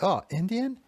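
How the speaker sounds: a mock disappointed yelp at the cheap smokes; surprised whine. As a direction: sound let down by the brand.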